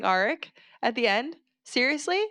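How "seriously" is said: incredulous. Real, not acted. Exasperated at the book.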